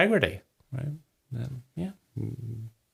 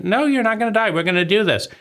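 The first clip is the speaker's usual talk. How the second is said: reassuring self-talk; 7 semitones higher, faster than usual. Retold or imitated. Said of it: "then I say".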